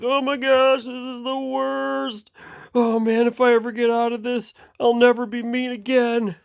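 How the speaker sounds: high, frantic wail; panicked little boat. Acted. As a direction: plead in a squeaky panic. Tugboat panicking in the storm.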